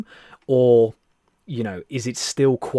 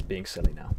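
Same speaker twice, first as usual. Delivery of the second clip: silly whisper; 6 dB quieter than usual. Real, not acted. Jokingly whispering into the mic.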